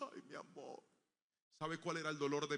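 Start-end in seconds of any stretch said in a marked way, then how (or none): 0.1-0.8 whispered, tearful "ay, mi amor"; tearful mother. Retold or imitated. Mother crying over her son after the grocer's humiliation, whispered. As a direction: breathe it out like a mother about to cry. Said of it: "se puso a llorar y dijo".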